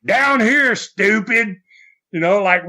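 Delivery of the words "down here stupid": mock calling out. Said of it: "he goes, he goes".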